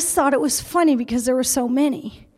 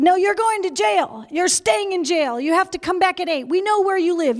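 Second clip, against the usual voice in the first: imitating angry police; 4 semitones higher than usual. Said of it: "they're really angry".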